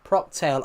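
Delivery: "Proctail" said as one blended word, prawn cocktail squashed together; old mispronunciation. Shown as a demonstration. Vlogger showing the viewer how he used to say prawn cocktail, mispronounced. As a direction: slur "Proctail" the way he said it as a kid. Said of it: "I used to say Proctail".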